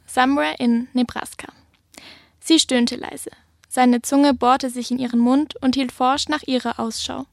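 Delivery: steady, measured thriller reading voice; story reading. Acted. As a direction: read the prologue like an audiobook narrator. Author reads her thriller prologue.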